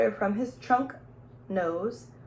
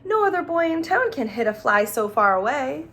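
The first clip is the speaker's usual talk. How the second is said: teacher praising; 5 semitones higher, 5 dB louder than usual. Retold or imitated. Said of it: "she would say".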